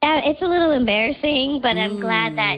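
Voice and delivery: digitally disguised voice; pitch-shifted anonymous voice; voice changer. Real, not acted. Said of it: "'cause Voice Changer's on".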